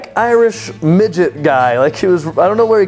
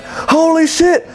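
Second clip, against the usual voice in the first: much higher, very slow amazed shout-out; drunk fan excitement; 13 semitones higher, much slower than usual. Retold or imitated. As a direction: gawk like a beer-holding fan. Shirtless fans spotting him.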